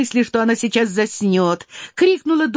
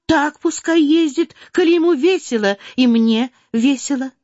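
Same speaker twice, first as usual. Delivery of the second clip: put-on higher, indignant girl guarding what is hers; possessive protest; 8 semitones higher than usual. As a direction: defend it as if someone takes your property. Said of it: "тоном человека, у которого хотят отнять".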